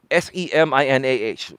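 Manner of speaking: SEMINAR spelt out with AH for the final R; dropped R. Shown as a demonstration. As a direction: spell out S E M I N A H, ending without the R. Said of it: "He couldn't pronounce the R's".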